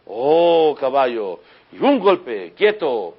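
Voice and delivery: loud, high shout to rein in a horse; yelling at a horse. Pretend. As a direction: bark the order at the animal. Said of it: "¿A quién estamos gritando?".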